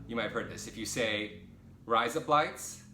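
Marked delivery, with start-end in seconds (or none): 1.8-2.8 mock Australian, louder and higher; Australian-sounding stretched vowels; Australian accent. Shown as a demonstration. Vlogger shows viewers an Australian phrase, mock Australian accent. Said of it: "how to say one thing in Australian".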